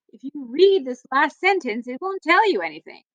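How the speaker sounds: lively storybook read-aloud for a class; reading to children. Acted. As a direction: read it like story time for kids. Teacher reads book to class.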